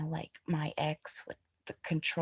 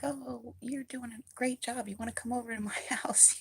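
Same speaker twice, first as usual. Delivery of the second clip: cheery passerby; 6 semitones higher than usual. Retold or imitated. Passersby praising her gardening.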